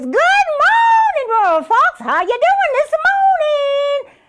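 sweetly mock the beaten fox; sly rabbit voice. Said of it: "Brer Rabbit says".

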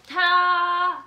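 big bright high reveal; excited ta-da. Real, not acted. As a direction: announce it like a magic trick. Unveils the last candy bar.

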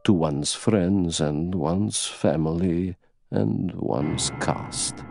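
put-on very slow, deliberate old aristocrat; indomitable old princess. Princess defending her lie out of loyalty, slow and proud. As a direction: declare a creed with unhurried conviction.

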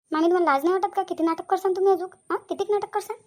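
exasperated telling-off; scolding. Acted. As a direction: shame someone for play-acting. Niece scolds aunt for faking.

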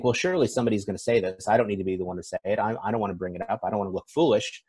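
hesitant inner voice. Acted. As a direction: rattle off the doubts as if thinking to yourself. Voices a hesitant person's inner doubts.

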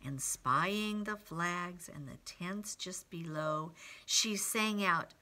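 put-on hushed lead-in for young listeners; story read to children. A narrator's reading. Reads picture book to children.

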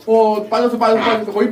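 excited. Real, not acted. Heavy pipe finally coming loose.

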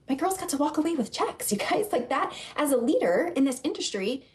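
moved, fighting back feeling; getting emotional. Real, not acted. Leader telling listeners about her team's paychecks, choked up. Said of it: "I didn't expect to get emotional there".

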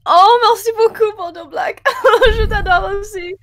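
high, loud, delighted thanks; excited. Real, not acted. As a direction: gush with joy at the donation. Thrilled thanks to donor.

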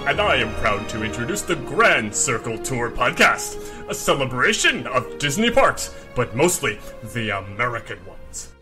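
spliced together words. Acted. Eagle character introduces podcast.

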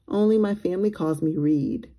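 hushed, breathy confession; whispered. Acted. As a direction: whisper it like a secret. Free confides his real name.

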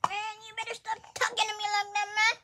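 grumpy old man, lightly voiced; cranky old man scolding. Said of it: "Get that old man voice out".

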